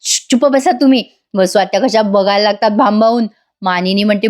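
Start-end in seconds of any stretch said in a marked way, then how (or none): 0.0-1.0 mildly annoyed telling-off; a touch of irritation; mock scolding. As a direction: imitate an irked wife shushing her husband. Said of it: "Kavya चिडते आणि म्हणते".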